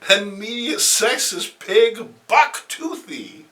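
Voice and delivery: a villainess gloating over her list. Acted. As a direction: savour each name on the list. Felicity reads her hit list.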